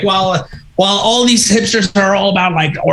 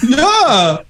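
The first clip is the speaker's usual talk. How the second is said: higher put-on voice; mock tourist chatter; 8 semitones higher than usual. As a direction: play both sides of the chat.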